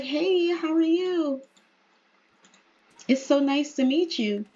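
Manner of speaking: lightly acted friendly greeting; friendly introduction. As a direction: greet a new acquaintance sweetly. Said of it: "gonna do a friendly introduction".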